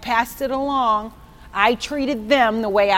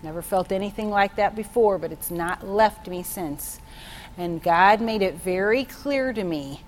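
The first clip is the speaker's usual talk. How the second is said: usual speaking voice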